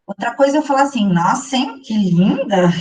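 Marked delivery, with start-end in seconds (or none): 1.1-2.7 slow, sarcastic "Nossa, hein, que linda!"; ironic praise. Shown as a demonstration. Mocking a friend's new outfit photo with irony. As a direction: say "que linda" with a knowing sneer. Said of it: "Perceberam que tem uma ironia na segunda fala".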